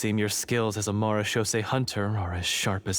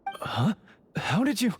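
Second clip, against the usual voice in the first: shocked disbelief; 11 semitones higher than usual. Acted. Shocked the explosives were found.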